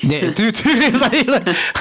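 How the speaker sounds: laughing. Real, not acted. Laughing agreement.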